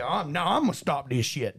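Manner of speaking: lightly Southern guy, resolved; mild mock Southern hero; Southern accent. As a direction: vow it with a slight Southern twang. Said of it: "Also Southern".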